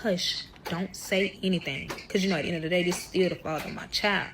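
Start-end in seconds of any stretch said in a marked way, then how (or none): 0.0-1.9 hushed. Retold or imitated. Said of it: "but I'm whispering like".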